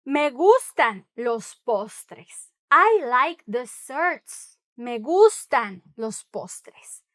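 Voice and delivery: slow, clear teacher model; slow model sentence. Shown as a demonstration. Teacher modelling the sentence slowly. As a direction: say it slowly for learners to copy. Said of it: "slow model sentence".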